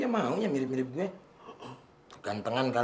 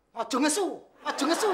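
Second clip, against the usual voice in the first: mimicking boss; 11 semitones higher, faster than usual. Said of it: "Baru mau marah".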